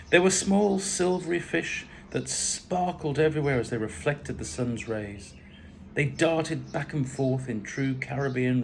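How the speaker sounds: measured, expressive story reading; story narration. A narrator's reading. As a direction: read the memoir aloud, phrase by phrase. Reads own story aloud.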